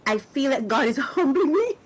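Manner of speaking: real tears breaking through a laugh; emotional. Real, not acted. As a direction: let the laugh catch into crying. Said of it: "I'm getting emotional now".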